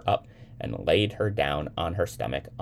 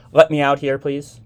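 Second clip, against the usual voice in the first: high, urgent request; hurried; 11 semitones higher, 12 dB louder than usual. A narrator's reading. Woman to the elevator girl, hurried and urgent. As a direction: ask loudly to get away at once. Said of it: "the woman said quickly".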